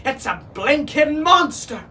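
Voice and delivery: high, loud parrot alarm; alarmed bird shriek; squawking parrot. A narrator's reading. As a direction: squawk the sighting to the crew. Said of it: "the parrot squawked".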